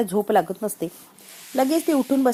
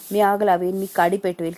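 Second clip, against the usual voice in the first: louder, threatening shout of the threats; retold threat; 6 dB louder than usual. Sharvari threatening Janaki's family, mock loud threat. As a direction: threaten to set the house on fire. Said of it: "काय काय धमक्या देत होती शर्वरी".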